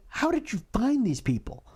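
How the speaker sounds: whispered in disbelief; hushed how-could-you disbelief; incredulous whisper. Real, not acted. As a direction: breathe it as a shocked aside. Incredulous aside about the mayor.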